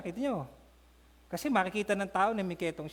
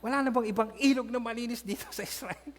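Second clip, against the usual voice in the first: mild indignant complaint; 3 semitones higher than usual. Acted.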